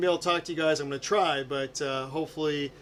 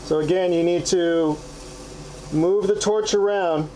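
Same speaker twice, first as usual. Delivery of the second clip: muffled. Real, not acted. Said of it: "I apologize if the sound is a little muffled".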